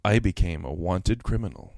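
low, lightly sultry reading; seductive voice. Shown as a demonstration. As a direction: read it deep, as a mild come-on. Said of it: "in a seductive voice".

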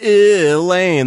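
"Elaine" called loudly, drawn out and falling; yelling out a name. Shown as a demonstration. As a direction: call "Elaine" across the room. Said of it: "Elaine is tough to say".

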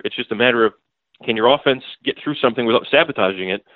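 usual speaking voice

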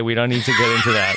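fast joking shout. Pretend. Mock outrage over a joke.

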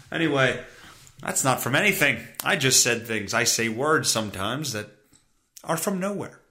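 ordinary delivery

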